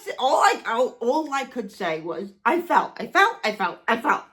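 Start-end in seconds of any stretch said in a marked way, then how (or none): 2.4-4.3 dazed repeating. Retold or imitated. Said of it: "like that".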